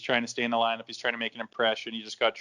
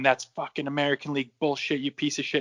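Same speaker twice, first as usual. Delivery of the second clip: imitating a referee laying into a player, higher pitch; mock ref's chewing-out, pitched up; retold angry tirade; 4 semitones higher than usual. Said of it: "he's laying into me".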